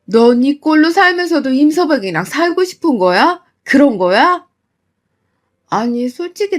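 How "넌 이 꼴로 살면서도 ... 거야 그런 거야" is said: loud exasperated scolding of a daughter; angry scolding. Retold or imitated. Mother scolding her daughter for staying married, angry. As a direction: scold her hard, raising the voice.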